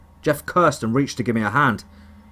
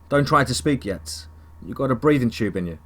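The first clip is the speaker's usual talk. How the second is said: put-on Texan accent. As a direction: ease him back in a Texan voice. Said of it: "with a twang ... Texan accent".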